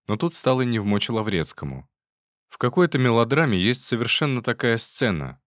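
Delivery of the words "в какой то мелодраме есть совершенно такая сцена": usual speaking voice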